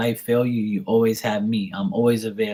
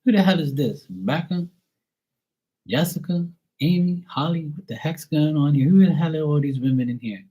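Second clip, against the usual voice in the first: higher, quicker mock jealous girlfriend; a hint of a suspicious girlfriend, pitched up; 5 semitones higher than usual. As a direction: squeak out a jealous girlfriend's accusations, lightly voiced. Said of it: "she'd be like".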